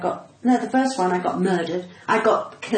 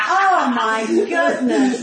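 drawn-out, giggling outburst, louder; laughing exclamation; 5 semitones higher, 7 dB louder, much slower than usual. Real, not acted. Reacting to the host's two-week marriage, laughing loudly. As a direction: burst out laughing in delight. Hearing host just married.

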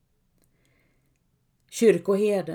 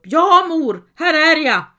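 much higher and louder, crying out; tearful shout; 7 semitones higher, 9 dB louder than usual. Acted. Helga answers her mother's voice, tearful shout. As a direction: answer through sudden tears.

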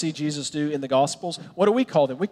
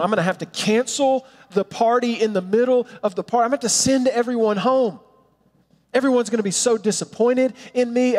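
mounting mock panic, pitch climbing; acted panic; 5 semitones higher than usual. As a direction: play a groom spiralling into worry. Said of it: "he begins to panic himself".

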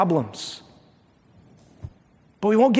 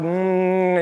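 savoring hum. Retold or imitated. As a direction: hum with pleasure over a treat. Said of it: "I savor these things".

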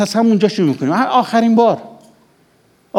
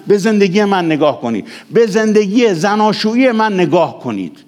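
fearless declaration; 3 semitones higher than usual. Real, not acted. Preacher urging congregation to look at his marriage, fearless.

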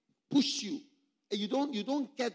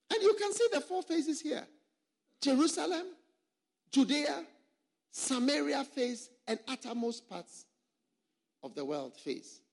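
much higher, ringing call of each phase; emphatic; 7 semitones higher than usual. Real, not acted. Preacher showing pastors the four ministry phases, high and ringing. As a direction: lift the voice high to announce each name.

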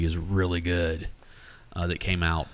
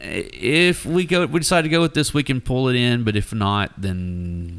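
mock studio exec; 4 semitones higher than usual. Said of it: "They were like".

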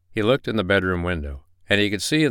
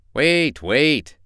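high, loud cry to hold off; startled fox, pitched high; urgent plea; 8 semitones higher, 6 dB louder than usual. Acted. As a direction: cry out to stop the attacking bear. Fox pleads with attacking bear.

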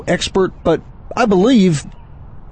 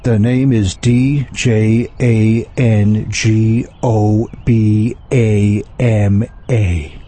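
slow, low gunslinger drawl; cowboy voice; 7 semitones lower, much slower than usual. Acted. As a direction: spell it out like a gunslinger. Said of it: "Django Obama?".

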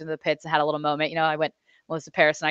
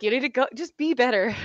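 blunt dad; 5 semitones higher than usual. Retold or imitated. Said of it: "He's like".

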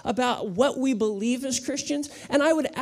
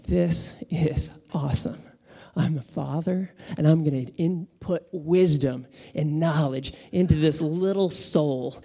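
hushed inner thought; 6 semitones lower than usual. Retold or imitated. Father thinking to himself about his son, hushed and awed. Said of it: "And I was like".

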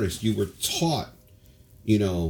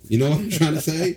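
excited; 6 semitones higher, 5 dB louder than usual. Real, not acted. Excited after his freestyle.

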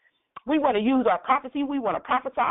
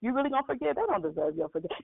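tempting inner voice. Retold or imitated. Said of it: "the enemy in your ear".

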